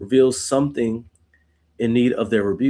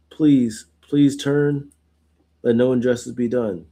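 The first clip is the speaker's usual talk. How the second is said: earnest plea; slower than usual. Retold or imitated. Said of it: "So he's saying that to God".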